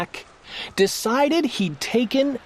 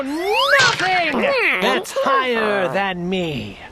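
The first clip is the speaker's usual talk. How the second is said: lightly voiced haughty turtle king; 3 semitones higher than usual. King scolds Mac from above, mild haughty voice.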